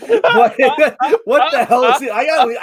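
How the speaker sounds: disbelief. Real, not acted. Reacting to an absurd Trump quote.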